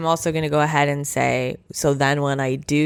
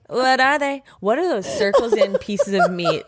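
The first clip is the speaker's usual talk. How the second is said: much higher, incredulous and laughing; high disgusted outburst; 10 semitones higher than usual. Real, not acted. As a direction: squeal it in disgust. Disgusted rant about bologna circles.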